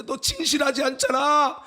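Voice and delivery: high, loud accusing rebuke; spirit shouting. Retold or imitated. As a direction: inner voice building to a shout. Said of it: "영이 소리치는 거야".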